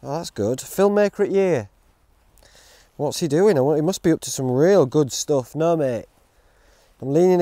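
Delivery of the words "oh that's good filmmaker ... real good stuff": impressed viewer musing. Retold or imitated. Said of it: "They're like".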